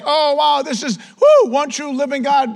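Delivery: high, loud acted wonder; amazed onlookers. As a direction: blurt it out like a wowed crowd. Voices the awestruck onlookers.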